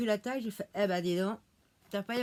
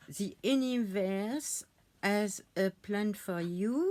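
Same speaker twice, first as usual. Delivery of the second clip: French accent; slower than usual. Real, not acted. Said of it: "On ne rigole pas de mon anglais".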